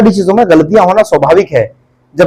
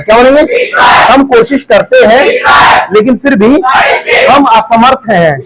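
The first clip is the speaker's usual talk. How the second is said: projected prompts, pausing for the chorus; classroom drill call-out; 4 semitones higher than usual. Real, not acted. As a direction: call out each phrase for the class to repeat.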